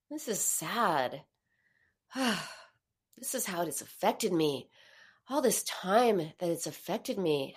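a hint of quiet grief; sad. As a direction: sigh through it, dejected. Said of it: "you get sad".

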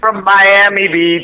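speakerphone sound, roomy and thin. Real, not acted. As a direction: voice over a phone speaker. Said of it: "Max, are you on a speakerphone?".

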